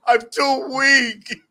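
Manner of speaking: very slow, feeble, laughing; mock dying Sith lord; weak Palpatine. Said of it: "I'm over here like Palpatine".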